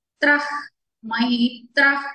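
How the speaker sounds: మైత్రః ending in a breathed-out h; visarga as h. Shown as a demonstration. Teacher shows the visarga, మైత్రః with breathy h ending. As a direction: let breath out at the end of మైత్రః. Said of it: "విసర్గని హాగా చెప్పాను కదా".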